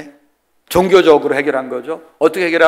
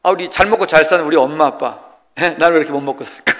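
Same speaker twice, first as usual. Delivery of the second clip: imitating young complainer. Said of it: "젊은 아이들이 무슨 생각이 있느냐".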